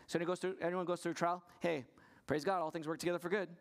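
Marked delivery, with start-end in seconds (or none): 1.6-3.5 breezy, quick, cheery platitude; glib slogan. Retold or imitated. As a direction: toss it off like an easy slogan. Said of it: "You just say that no matter what suffering".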